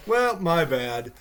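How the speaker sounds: slow, exaggerated fake apology; mock non-apology. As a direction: imitate a careless "oops" apology. Mocks her offhand non-apology.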